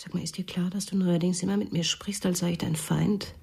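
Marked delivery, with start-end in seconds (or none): 0.1-2.4 whisper. Acted. Wife confronting husband.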